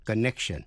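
"connection" with a light, unreleased k before the sh; touch a k in "connection", barely released; soft k in connection. Shown as a demonstration. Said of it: "lưỡi đặt vào cua mềm ở vị trí âm k". ("connection" với âm k nhẹ, không bật rõ)

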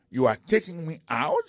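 high, loud outraged question; can't believe he's the one thrown out; indignant disbelief. Acted. Pete to the usher, outraged disbelief.

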